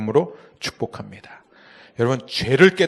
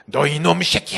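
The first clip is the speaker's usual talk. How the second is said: slightly raised, rough telling-off; mock scolding; 4 semitones higher than usual. Preacher mimicking a Holy Spirit he says doesn't scold, mock scolding. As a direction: imitate someone chewing out a kid. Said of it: "성령님 우리를 막 야단치고 꾸짖고".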